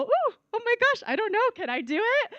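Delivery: high, quick mock self-doubt. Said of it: "might feel a little".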